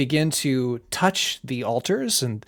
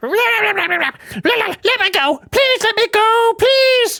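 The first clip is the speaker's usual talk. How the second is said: very high, very loud, pleading little creature voice; 8 dB louder than usual. Narrating a scene, voicing a strange creature held in the listener's hand: pleading mushroom creature voice. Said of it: "this creature is like".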